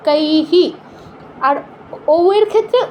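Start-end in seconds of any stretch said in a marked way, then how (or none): 0.1-0.6 কৈহি ending in an h plus short i; visarga echoed as hi. Shown as a demonstration. Teacher showing chanting learners, কৈহি with a voiced "hi" ending. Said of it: "বিসর্গের সাথে যুক্ত করতে হবে".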